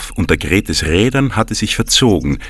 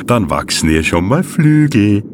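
mischievous; 4 semitones lower, slower than usual. Acted. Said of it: "fügte Grete schelmisch hinzu".

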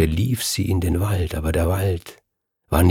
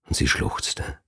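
whispered narration; 6 dB quieter than usual. A narrator's reading. Erzählerin flüstert vom Schluchzen.

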